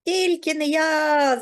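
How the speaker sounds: high, loud, drawn-out refusal; crying out. A narrator's reading. Lazy mouse Круть refuses the threshing, crying out. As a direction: cry out a slow, squeaky refusal. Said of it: "закричав Круть".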